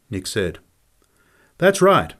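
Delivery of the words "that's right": higher, mildly pleased confirmation; happy. A narrator's reading. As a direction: say it with a touch of delight. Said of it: "Ad said happily".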